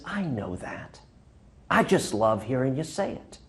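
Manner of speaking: a hint of a teasing grin in the voice; sly old man. Little old man teasing the Marine at the gate, sly and soft. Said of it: "with a twinkle in his eye".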